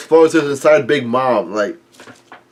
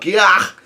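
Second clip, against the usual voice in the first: higher-pitched yelled cry; mock yelled gah; 6 semitones higher than usual. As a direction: let out a brief, high mock yell. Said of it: "yells out".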